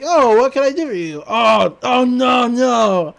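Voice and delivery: a mock-scary howl of no; hammed-up vampire shout. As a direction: ham it up to scare the trick-or-treaters. Stan as vampire scaring kids.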